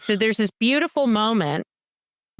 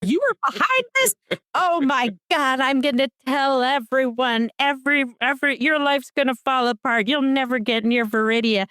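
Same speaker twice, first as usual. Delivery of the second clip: outraged accusation; 6 semitones higher than usual. Retold or imitated. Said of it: "He's like".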